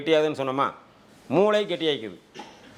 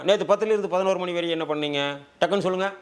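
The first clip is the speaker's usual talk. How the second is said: pointed quick question; 3 semitones higher, faster than usual. Acted. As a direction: demand an instant answer. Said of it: "யோசனை பண்ற மாதிரி கேட்கணும்னா". (டக்குன்னு பதில் கேட்கும் கேள்வி)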